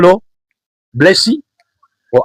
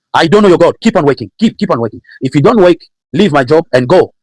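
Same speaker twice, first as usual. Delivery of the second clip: higher-pitched impatient scolding; domineering boss; 5 semitones higher than usual. Acted. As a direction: order the worker back to the job. Boss scolding a praying worker, acted.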